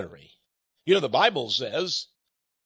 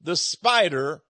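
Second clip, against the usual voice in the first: slow title; slower than usual. Shown as a demonstration. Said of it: "It's called".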